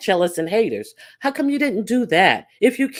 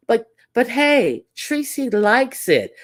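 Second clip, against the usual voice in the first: sarcastic mock shrug; 6 semitones higher, slower than usual. Mocking the commenter, drawn out.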